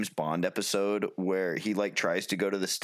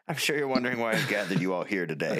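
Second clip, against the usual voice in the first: detective revealing the culprit; faster than usual. Retold or imitated. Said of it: "it's like".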